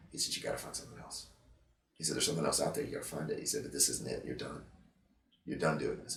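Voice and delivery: quiet, choked-up retelling; softly moved, voice fading; emotional. Real, not acted. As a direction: hold back tears as you quote him. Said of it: "I'm getting emotional thinking about it".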